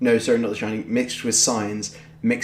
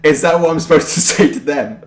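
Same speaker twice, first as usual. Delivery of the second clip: mock outburst; 4 semitones higher, 7 dB louder than usual. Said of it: "I was like".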